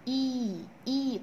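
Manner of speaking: long, drawn-out EE sound; long vowel. Shown as a demonstration. Teacher showing pupils the long vowel, stretched ee on إي. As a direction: hold إي as a long, steady ee. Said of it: "طولت كده فيه".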